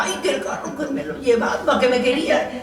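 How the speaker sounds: lightly voiced flustered driver, half laughing; a hint of a flustered bus driver; imitating the bus driver. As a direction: mimic the driver's excited rambling. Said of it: "así hablaba".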